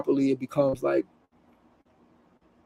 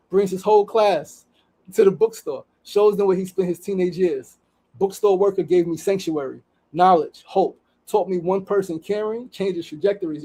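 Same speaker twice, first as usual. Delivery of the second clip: raised, storytelling read of a post; reading a post aloud; 3 semitones higher than usual. Acted. Host reading an Instagram story to viewers, earnest read.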